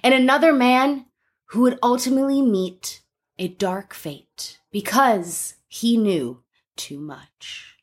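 dramatic slow reporter delivery; slow ominous reporter narration; investigative reporter voice. Pretend. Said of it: "One more time".

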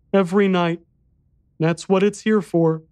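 put-on high, small boy's voice; little boy voice.

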